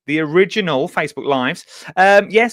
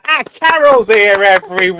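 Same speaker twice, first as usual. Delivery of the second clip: excited; 5 semitones higher, 7 dB louder than usual. Real, not acted. Welcoming the guest on air.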